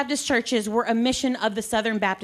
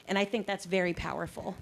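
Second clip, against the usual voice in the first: out of breath; 4 semitones lower, 7 dB quieter than usual. Real, not acted. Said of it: "Sorry, I'm out of breath already".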